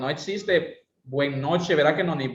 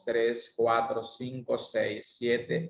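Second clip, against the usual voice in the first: tune 1; 3 semitones lower, 4 dB quieter, slower than usual. Shown as a demonstration. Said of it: "vamos a contar los números de esta forma".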